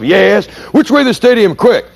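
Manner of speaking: high, urgent woman calling out; high-pitched honking lady. Retold or imitated. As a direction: squeak it out like an impatient lady driver. Lady asks the way.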